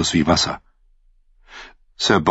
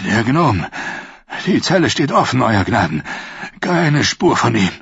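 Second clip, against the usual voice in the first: out of breath; 3 semitones higher than usual. Acted. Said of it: "schnaufte, weil er die Treppe hinaufgerannt war".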